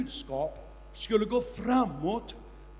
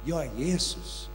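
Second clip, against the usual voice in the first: a hint of a solemn heavenly voice; voice of Jesus; 4 semitones lower, 4 dB louder than usual. Jesus speaking to the freed man, solemn and lower. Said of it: "Och rösten sa".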